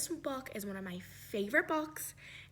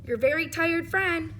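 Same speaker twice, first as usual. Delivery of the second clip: louder, weary crayon complaining; very tired gray crayon; 4 dB louder than usual. Acted. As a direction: beg for a small job for once.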